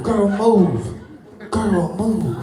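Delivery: put-on fading laughing girl, move; laughing sass. Comic repeating line to crowd, laughing. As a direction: let it dissolve into laughs.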